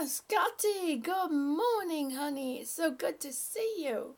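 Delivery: sweet high welcome to a regular; fond greeting. Real, not acted. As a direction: greet him like a dear friend. Greeting a viewer who arrived.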